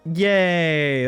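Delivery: ordinary talk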